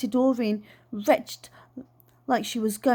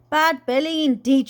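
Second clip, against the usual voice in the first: scornful; 4 semitones higher, 7 dB louder than usual. Acted. Aunt scoffing at a fake illness.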